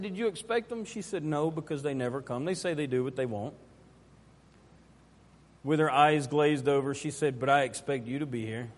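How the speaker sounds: low, soft account of a sad memory; hushed storytelling. Real, not acted. Preacher recalls a child let down at a recital, hushed and low. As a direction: tell it quietly, letting the voice sink.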